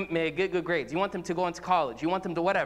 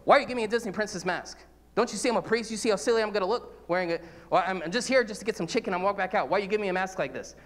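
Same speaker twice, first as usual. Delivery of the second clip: mock indignant complaint; 2 semitones higher, faster than usual. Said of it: "And I would say".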